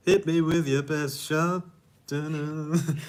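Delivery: slow Texan drawl on the lyric; slow drawling Texas-style impression; Matthew McConaughey drawl. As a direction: lean into a lazy Southern drawl. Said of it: "That accent came out of nowhere".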